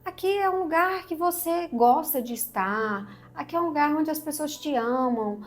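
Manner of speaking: lightly voiced chorus of dissuading neighbours; discouraging voices. Everyone discourages the bird from leaving. (vozes que desencorajam, levemente encenadas)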